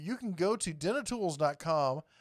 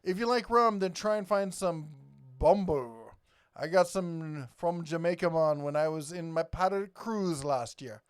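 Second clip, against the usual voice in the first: Jamaican accent; 3 dB louder than usual. Shown as a demonstration. Livestream host recommends a rum to viewers, put-on Jamaican accent. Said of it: "I can do a Jamaican accent".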